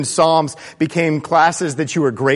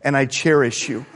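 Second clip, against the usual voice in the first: lightly voiced loving father, firm then tender; God telling his child he is loved, softening; voicing God the Father. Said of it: "He reaches down and he says".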